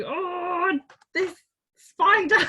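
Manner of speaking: high squealing laugh at the spider; laughing panic. Retold or imitated. Retelling spider fright, high laughing squeal.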